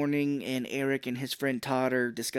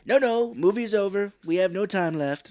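mock insistence; 7 semitones higher, 7 dB louder than usual.

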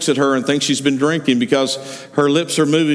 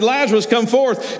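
higher, commanding call; Jesus calls Lazarus from the tomb, higher; ringing call; 6 semitones higher than usual. Acted. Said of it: "He said".

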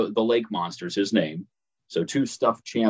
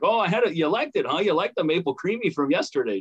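high-pitched retold teasing question; imitating counter kid; 7 semitones higher than usual. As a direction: play the kid recognizing a returning customer, pitched up. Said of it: "And he's like".

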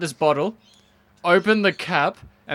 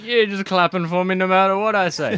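pompous mayor voice; 3 semitones higher, 3 dB louder than usual. Retold or imitated. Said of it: "I like to imagine these saying".

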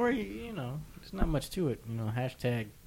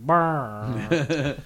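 barge horn noise; 2 semitones higher, 6 dB louder than usual. Retold or imitated. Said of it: "the garbage barge going".

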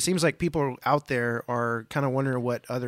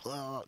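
understated groan of burnout; retold weary ugh; 13 dB quieter than usual. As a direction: groan "ugh" quietly, as if worn out. Retold weary reaction to church planting.

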